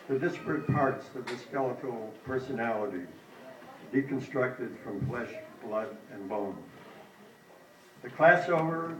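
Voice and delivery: measured poem recital in short phrases; poetry reading. A narrator's reading. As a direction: read a poem aloud, pausing after each line. Reads own poem aloud.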